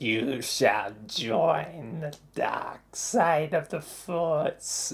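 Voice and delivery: low, deep, villainous emperor voice. Playing a game, the speaker reaches the throne and becomes Palpatine again. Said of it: "I can be Palpatine once again".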